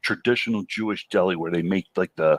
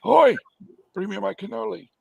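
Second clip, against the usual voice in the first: put-on New York Jewish accent; 12 semitones higher than usual. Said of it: "Except with a Jewish accent".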